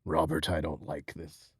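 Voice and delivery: very low, put-on eerie voice; low creepypasta-style grumble; creepy mock complaint. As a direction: drop deep and soft, mock menace. Low put-on voice addressing Robert.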